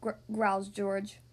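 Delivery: put-on lively read-aloud for little kids; storybook narration. A narrator's reading. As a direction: read it like bedtime story time. Reads picture book aloud.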